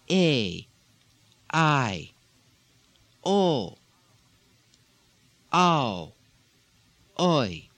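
each vowel a, I, o, ow, oi sounded out on its own, falling; diphthongs said alone. Shown as a demonstration. Teacher models diphthongs for learners, clearly sounded. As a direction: sound out a, I, o, ow, oi one by one. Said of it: "what in English are diphthongs".

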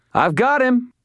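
high, loud battle call. A narrator's reading. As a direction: shout it across the fight. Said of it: "Fix called".

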